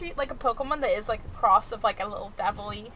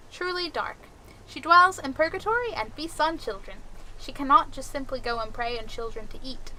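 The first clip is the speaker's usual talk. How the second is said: dramatic folklore reading; 3 semitones higher than usual. Acted. Reads a note aloud.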